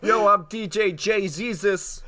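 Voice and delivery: loud, high, slow mock DJ hype; club DJ voice. Jesus as DJ introducing himself, hammed-up hype. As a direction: announce yourself like a club DJ.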